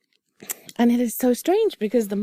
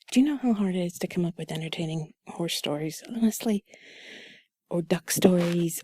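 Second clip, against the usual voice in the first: sultry narrator; 2 semitones lower, 4 dB quieter than usual. Acted. Whispered intimate chat continues.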